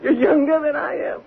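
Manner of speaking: tearful. Acted. Drunk actress confessing envy.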